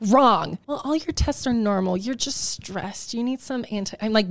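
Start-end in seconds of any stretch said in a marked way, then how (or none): 0.1-0.6 pleading with the doctor, heated; heated protest. Retold or imitated. 0.7-4.0 condescending doctor. Retold or imitated. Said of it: "doctors were gaslighting you".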